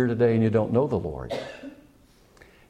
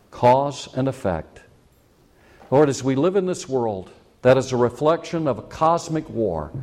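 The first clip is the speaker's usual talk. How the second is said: measured, solemn prayer voice, steady and unhurried; closing prayer. Acted. Pastor leading the congregation in prayer, solemn. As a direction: speak to God on behalf of the church.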